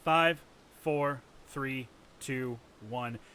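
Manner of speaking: rally the crowd, count them down; hyped count to go; countdown call. Real, not acted.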